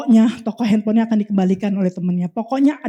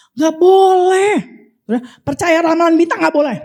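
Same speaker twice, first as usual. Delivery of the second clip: emphatic prohibition; 6 semitones higher, 5 dB louder than usual. Real, not acted. Preacher forbids the congregation believing in predictions, emphatic.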